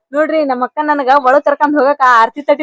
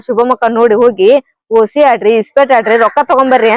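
lower-pitched recital of earlier orders; retold instructions; 5 semitones lower than usual. Wife reminding husband what she sent him out to do, retold instructions. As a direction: repeat your own instructions in a lower voice. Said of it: "ಅಂತ ಹೇಳಿ ಕಳ್ಸಿದ್ದೆ ರೀ ನಾನ".

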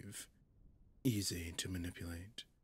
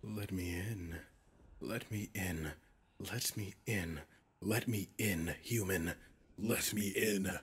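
from insistent to a loud shout; building demand; 7 dB louder than usual. Acted. Demon demanding entry from a human, building to a shout. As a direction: repeat it faster and harder until it bursts out.

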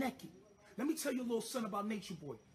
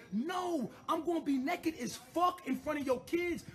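a raised, defiant yell; defiant shout; 4 semitones higher than usual. Real, not acted. Defiant outburst about kids.

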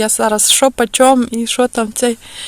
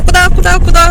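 calling out; 7 semitones higher, 11 dB louder, much faster than usual. Retold or imitated. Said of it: "відкриваю вікно і все питаюся".

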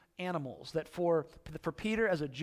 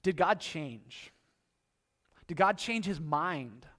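slow wondering; slower than usual. Retold or imitated. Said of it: "we go".

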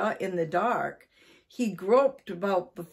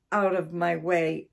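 angry shout. Acted. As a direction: drive the cats out, yelling. Angry man chasing cats out.

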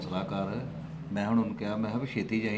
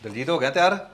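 raised voice calling across the house; 5 semitones higher, 5 dB louder than usual. Acted. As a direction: call the son's name, high and louder. Father calls son by name. (ਪੁੱਤ ਨੂੰ ਉੱਚੀ ਆਵਾਜ਼ ਮਾਰਨਾ)

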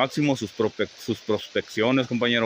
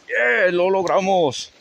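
high, loud whoop of victory, then a slower "we made it"; triumphant cheer; 8 semitones higher, 4 dB louder, slower than usual. Real, not acted. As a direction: shout with relief after crossing the river. Made it across the river. (grito de triunfo, agudo y fuerte, al cruzar el río)

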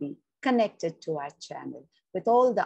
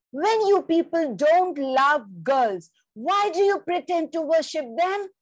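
voice near a sob; 10 semitones higher, 6 dB louder than usual. Acted. Girl confronting the family about girls, tearful protest. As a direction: fight back tears as you accuse them. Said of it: "My voice breaks into a sob".

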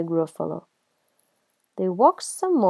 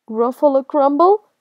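higher, loud, rising in disbelief; alarmed question; 6 semitones higher, 7 dB louder than usual. Acted. Gruffalo hears the mouse's threat, alarmed. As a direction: echo it as a shocked question.

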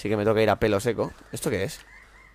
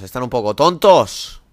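slow, louder mocking repeat; 7 dB louder, slower than usual. Shown as a demonstration. Gamer mocking dazed enemies, slow and loud. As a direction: drag out tontos.

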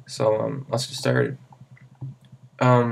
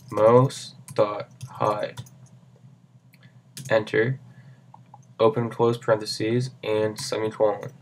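dictating. Shown as a demonstration. Reading code out to type.

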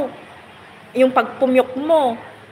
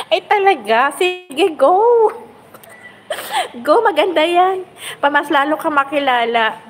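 excited cheering; 3 semitones higher, 3 dB louder than usual. Real, not acted. Cheering on a singer entering contest.

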